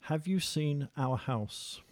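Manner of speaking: slow, careful Oxford English translation; best Oxford English. Shown as a demonstration. Interviewer translating dialect for listeners, in best Oxford English voice. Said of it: "best Oxford, English voice".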